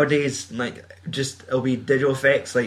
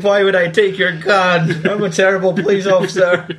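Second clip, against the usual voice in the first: hapless policeman parody; 6 semitones higher, 5 dB louder than usual. Retold or imitated. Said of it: "He's like".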